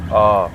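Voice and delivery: आ held long and loud; teacher modelling one drawn-out आ; long aa sound. Shown as a demonstration. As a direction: sustain आ as an open "aaa". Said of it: "अ की ही sound निकालता है".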